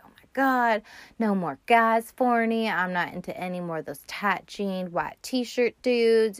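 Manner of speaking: lightly voiced, done with men; exasperated Novalee. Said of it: "She's like".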